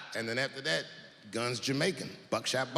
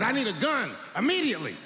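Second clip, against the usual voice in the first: urgent demand; 6 semitones higher than usual. Retold or imitated. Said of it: "like that, just like that".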